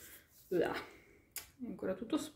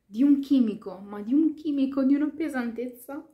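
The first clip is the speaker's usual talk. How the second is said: with hiccups; 4 semitones higher, 7 dB louder than usual. Real, not acted. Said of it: "scusate lo singhiozzo".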